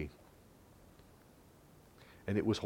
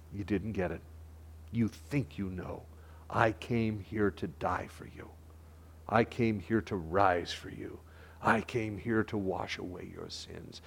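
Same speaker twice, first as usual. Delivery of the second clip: soft pleading Jesus; 3 semitones lower, 5 dB quieter than usual. Acted. Jesus speaking to Jerusalem, soft.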